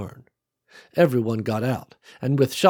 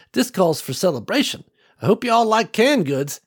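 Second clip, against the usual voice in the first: put-on strong clear old woman; 9 semitones higher, 3 dB louder than usual. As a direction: call out warmly like a grandma. Old farm woman speaks.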